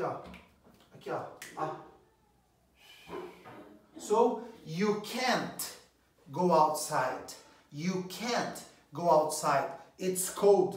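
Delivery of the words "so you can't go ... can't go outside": can't slow and leaned on; stress on can't. Shown as a demonstration. Teacher showing the negative can't. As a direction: hit the word can't. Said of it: "É só você acrescentar aqui".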